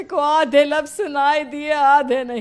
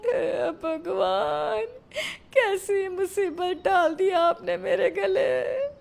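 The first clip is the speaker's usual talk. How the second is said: wailing lament; 4 semitones higher, slower than usual. Acted. Despairing over deaf bahu.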